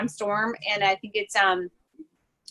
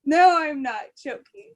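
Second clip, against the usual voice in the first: slow, higher, insisting; insistent; 6 semitones higher, slower than usual. Real, not acted. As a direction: insist it really happened. Insisting story is true.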